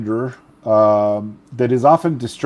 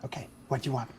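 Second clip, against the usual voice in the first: high, soft, airy mummy rasp; a distracted old mummy, softly delighted; hoarse mummy voice; 11 semitones higher, 11 dB quieter, much faster than usual. Mummy bursar Pam greeting Phil, high hoarse rasp. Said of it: "a hoarse, indefinite voice".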